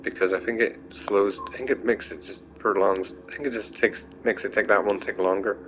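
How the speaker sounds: tripping over words, sleepy; stuttering. Real, not acted. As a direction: stumble and restart each phrase. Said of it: "I'm sort of stuttering over myself here 'cause I'm sleepy".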